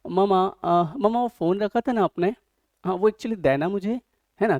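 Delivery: mock show-off girl, sweet and stylish. A girl showing off by calling her mother Mama, lightly put-on style. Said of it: "वहाँ कहीं बाहर जाते हैं".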